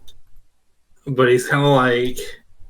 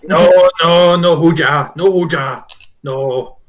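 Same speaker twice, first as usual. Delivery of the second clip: goblin refusal; 3 semitones higher, 5 dB louder than usual. Acted. Goblin shakes his head.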